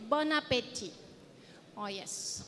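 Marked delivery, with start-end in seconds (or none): 0.1-0.9 "Bon appétit" with a nasal French bon; showing the learners the French phrase. Shown as a demonstration. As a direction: model how the French say it. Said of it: "French people say".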